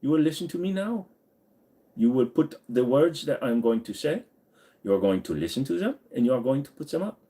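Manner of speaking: high, commanding mock voice ordering the phone; commanding Google. Ordering Google's talk-to-text around in a high mock voice. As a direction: boss the phone around in a put-on voice. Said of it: "And then I said to him".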